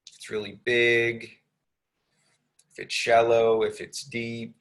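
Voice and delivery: unhurried meditation guidance with long pauses; lightly measured, spacious meditation delivery; guided meditation. Real, not acted.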